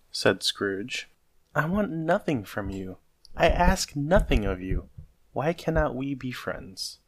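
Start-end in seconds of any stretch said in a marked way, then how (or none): 1.5-7.0 higher, earnest appeal; heartfelt entreaty; pleading. Acted. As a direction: reach out sincerely, voice lifted. Nephew pleads for friendship.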